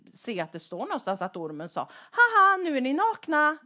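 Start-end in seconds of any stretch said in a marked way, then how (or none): 2.1-3.6 mocking snake. Snake mocking the naked pair.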